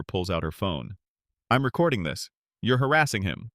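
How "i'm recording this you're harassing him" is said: raised, higher, bold warning; lightly voiced protesting woman; firm call-out. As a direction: bystander calling the agent out. Bystander woman confronts agent.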